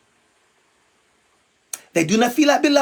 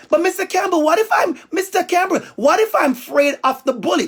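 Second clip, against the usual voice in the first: put-on higher, childlike pleading question; worried child; 6 semitones higher, faster than usual. Pupil asking Mister Campbell what to do, high childlike voice. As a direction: play a small kid asking the teacher for help.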